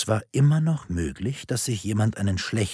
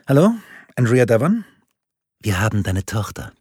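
hohe künstliche Stimme; 2 semitones higher, 6 dB louder than usual. A narrator's reading. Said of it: "von einer hohen, künstlichen Stimme gesprochen".

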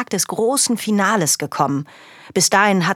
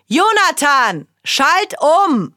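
higher, louder command; stern order; 9 semitones higher, 5 dB louder, slower than usual. Acted. Father ordering Jonathan to switch channels, louder.

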